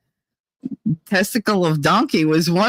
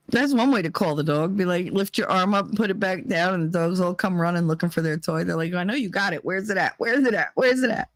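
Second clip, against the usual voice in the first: quiet aside; 4 semitones lower, 5 dB quieter, faster than usual. Retold or imitated. Quiet aside, dogs voiced.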